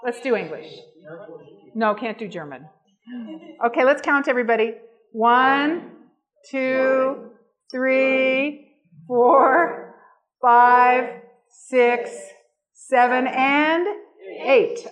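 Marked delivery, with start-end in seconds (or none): 5.1-14.9 loud sing-song counting for the crowd; kindergarten teacher voice. Acted. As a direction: count slowly like leading little kids. Leads audience counting sugar teaspoons.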